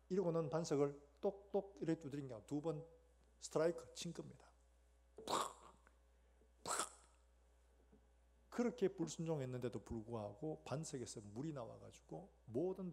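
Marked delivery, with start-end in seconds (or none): 5.3-6.9 sharp imitated whack, twice; striking sound. Shown as a demonstration. Moses striking the rock twice, imitated whacks. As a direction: punch out the sound of each blow.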